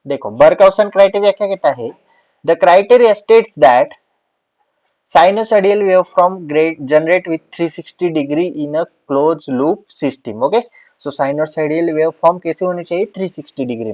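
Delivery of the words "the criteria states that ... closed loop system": slow, deliberate note-dictation voice; dictating notes to the class. Acted. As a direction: spell it out slowly so students can write. Dictating Barkhausen criteria slowly.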